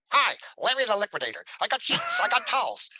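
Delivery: high, loud huckster hawking his wares; cheesy pitchman voice. Retold or imitated. Pitching sheets to Mister Fontana, loud and high like a corny salesman. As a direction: sell sheets like a goofy late-night salesman. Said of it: "this is what I hear in my head".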